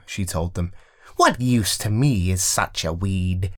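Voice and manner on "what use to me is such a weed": lightly voiced witch, scornful; a hint of a witch sneering at a weed. Rowena scorns the weed, lightly voiced witch.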